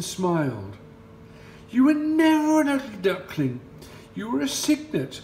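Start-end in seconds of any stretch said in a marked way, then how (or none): 1.7-5.2 high, louder gentle swan voice; kind swan. Acted. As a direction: reassure him tenderly. Swan companion speaks.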